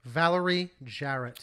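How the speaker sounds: Valerie Jarrett said slowly, word by word; slow, careful repeat. Real, not acted. Co-host repeating the name on request, Valerie Jarrett slow and careful. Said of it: "say her name again".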